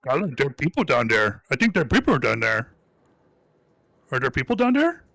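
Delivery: goblin voice. Acted. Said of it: "who knows goblin hears".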